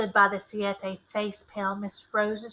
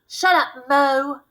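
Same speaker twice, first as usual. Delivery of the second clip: sharp snap, high and loud; snapped; 5 semitones higher, 8 dB louder, much slower than usual. Acted. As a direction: shut him up, hard and fast. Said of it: "Mister Mason snapped".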